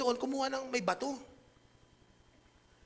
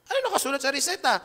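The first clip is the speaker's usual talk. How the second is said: curious question; 7 semitones higher, 7 dB louder than usual. Retold or imitated. Voicing himself asking friend.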